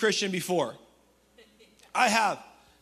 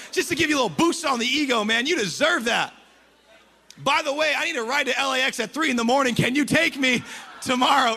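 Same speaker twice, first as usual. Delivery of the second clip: hammed-up buttering-up before a favour; too-nice flattery; 3 dB louder than usual. Friend on the phone wanting a ride, overly nice. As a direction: lay the compliments on thick, eager to get something. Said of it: "they've been too nice for two minutes".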